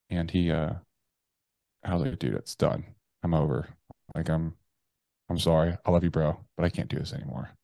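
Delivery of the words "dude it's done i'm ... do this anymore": subdued, understated retold despair; resigned goodbye. Man phoning his army buddy to say goodbye, resigned.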